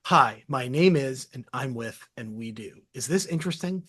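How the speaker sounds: slow, flat-out template pitch read; slow blunt opener. Shown as a demonstration. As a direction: read the bare intro slowly, trailing off. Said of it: "this route is effective".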